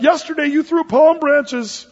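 high, loud, slow complaint; loud, high, slow protest; indignant shout. A narrator's reading. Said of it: "he shouted".

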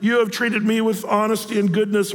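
lightly tearful Saul pleading; a touch of hammed-up remorse; understated sobbing apology; mock weeping. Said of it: "He's weeping".

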